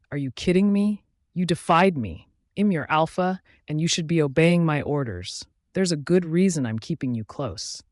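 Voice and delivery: fury just under the lid; barely controlled fury. Acted. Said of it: "He can barely control his fury".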